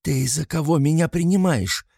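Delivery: high, sharp angry question; angry retort. A narrator's reading. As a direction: snap it at him in fury. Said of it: "зло бросила я". (зло бросить)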